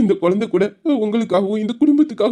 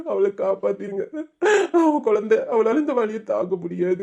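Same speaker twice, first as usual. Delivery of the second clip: tearful prayer. Acted. Brother praying to God, weeping.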